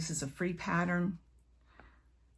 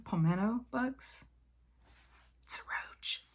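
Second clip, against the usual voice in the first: whisper; 5 semitones higher than usual. Real, not acted. Aside about palmetto bugs.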